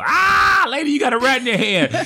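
high-pitched panicked yell; loud, hammed-up alarmed scream; mock scream. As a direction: shriek it out the window at a stranger. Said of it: "I would have screamed out the window".

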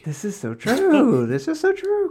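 high, drawn-out emphatic agreement. Real, not acted. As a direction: stretch it out, really meaning it.

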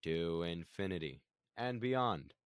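slow monotone hero line; monotone Buzz Lightyear. Retold or imitated. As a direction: say it slow and level. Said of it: "very monotone voice".

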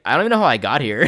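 lightly voiced confused dude; K-Dog. Game master imitating character switching personalities, mildly dopey and loud. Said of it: "split between these characters".

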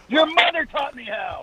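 cackling comeback. Real, not acted. Comeback after "you suck.

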